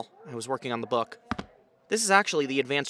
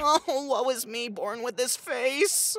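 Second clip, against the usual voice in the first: melodramatic lament; 8 semitones higher, slower than usual. Acted.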